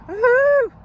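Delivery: high loud woohoo; cheering. Real, not acted. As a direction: whoop with joy. Cheering after long break.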